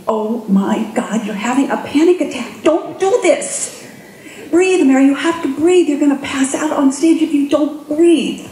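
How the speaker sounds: coaching herself through panic in a mild mock alarm; panicky inner voice. Speaker voicing her panicking inner voice on stage, alarmed. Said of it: "I have a voice up here who's saying".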